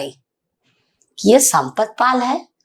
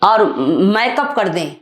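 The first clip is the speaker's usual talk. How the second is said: retold angry complaint. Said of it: "मुझे इतना गुस्सा है, मैं रो दी".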